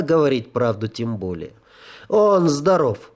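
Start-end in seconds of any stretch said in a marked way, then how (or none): 2.1-3.1 evasive. Acted. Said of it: "уклончиво ответил я".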